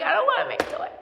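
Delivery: a hint of a pouting Herbie; whiny elf. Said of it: "he's like".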